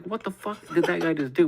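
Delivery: high, loud disbelief; astonished. Retold or imitated. Friends reacting to a stranger's ninja kick, loudly astonished.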